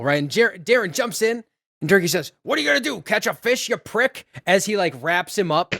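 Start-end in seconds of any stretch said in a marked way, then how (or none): 2.4-4.3 higher-pitched, lightly acted jeer; mock taunting. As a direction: play a cocky villain's taunt, half in jest. Recapped turkey villain taunts the hero.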